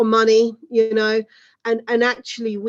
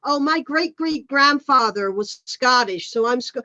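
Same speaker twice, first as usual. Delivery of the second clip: mock American tourist. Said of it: "they say".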